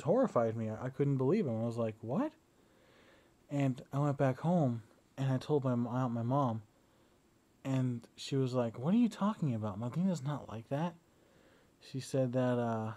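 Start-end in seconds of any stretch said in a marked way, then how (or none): 2.0-2.3 high, rising incredulous question; retold disbelief. Reacting to horrifying claims about aunt, retold disbelief. 8.8-10.9 mildly incredulous, with swooping emphasis; retold disbelief. Mom defending the aunt on hearing gossip, imitated disbelief. Retelling mom's disbelieving reply.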